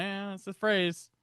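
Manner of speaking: high, slow Southern drawl; buy into it in a put-on Southern accent. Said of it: "put the southern accent on it".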